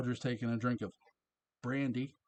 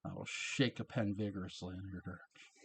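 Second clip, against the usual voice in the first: Roger impersonation; 3 semitones lower, 4 dB quieter than usual. Retold or imitated. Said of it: "That's my Roger impersonation".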